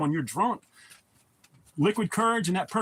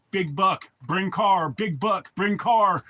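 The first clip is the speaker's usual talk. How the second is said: excited blurt; 5 dB louder, much slower than usual. Retold or imitated. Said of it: "all I could say was".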